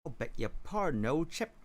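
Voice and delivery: weak attempt at a Cockney accent; a hint of Cockney, rising on old. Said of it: "this is a bit more Cockney".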